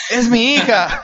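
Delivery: high-pitched mock protest; comic high exclamation of a dad; outraged papá. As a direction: act out a horrified father, voice jumping up. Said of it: "Y el papá".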